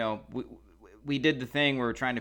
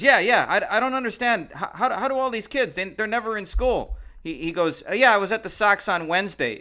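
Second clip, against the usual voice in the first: higher mock rant, gathering steam; imitating Dennis's rant; 7 semitones higher, 4 dB louder than usual. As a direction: ham up a friend's grumpy tirade, pitched up. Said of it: "Dennis starts going on his second favorite rant".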